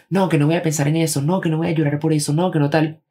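voz más aguda de burla imitando a quien se niega; imitando la negación, agudo. Retold or imitated. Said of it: "Cuando ustedes dicen". (burla aguda de quien se niega a sentir)

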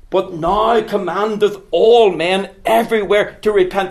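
thundering repeat of a scripture line; forceful preaching. Acted. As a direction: drive the verse home to the congregation.

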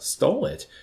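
high, startled exclamation; shocked disbelief at the accusation; amazed. Acted. Chaplain accused of stealing a tomato, amazed. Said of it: "exclaimed with amazement".

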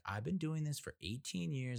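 insistent pushy mover. Retold or imitated. Mover repeats himself, doubling down.

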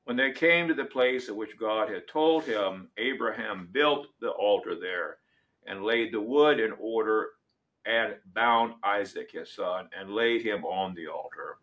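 measured, solemn reading of Scripture; dramatic Bible reading from the pulpit. Acted. Reads Genesis 22 aloud.

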